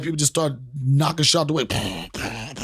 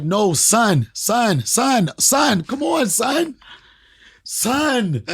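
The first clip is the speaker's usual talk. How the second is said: rising higher and higher on each son; escalating mock plea, pitch climbing; pleading son; 7 semitones higher, much slower than usual. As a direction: son son son rising to a high whine. Pleading Brooklyn son calls.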